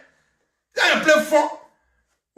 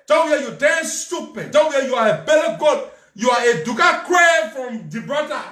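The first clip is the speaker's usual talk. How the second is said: loud mocking name-calling; jeering at Jovial; taunting insults; 3 semitones higher, 3 dB louder than usual. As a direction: shout the taunts, half laughing. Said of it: "But when you say".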